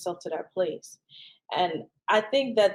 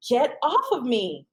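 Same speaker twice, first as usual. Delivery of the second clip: slow, louder, higher retold yell; 5 semitones higher, 4 dB louder, slower than usual. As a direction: push him off with your voice, slowly. Retold assault, pushing man off.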